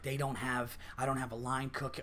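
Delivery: low, very soft retold complaint; muted livid grumble. Waitress venting within a customer's earshot, muted and livid.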